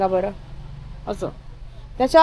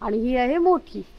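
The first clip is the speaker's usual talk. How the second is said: usual speaking voice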